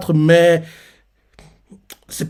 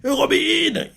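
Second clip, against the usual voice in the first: appel; 12 semitones higher, slower than usual. Retold or imitated. Compagnon appelle Robin tombé.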